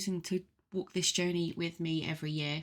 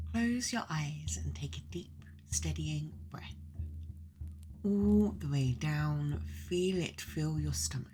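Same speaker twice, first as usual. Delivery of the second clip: guided meditation; 2 semitones lower than usual. Acted. Host leading listeners into the mead hall, guided meditation.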